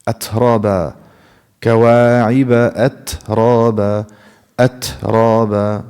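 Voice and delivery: أترابا with brief breath on ت, straight into را; no gap after the airy ت in أترابا; correct hamis. Shown as a demonstration. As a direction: release ت lightly and move on in أترابا. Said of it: "Give me another example".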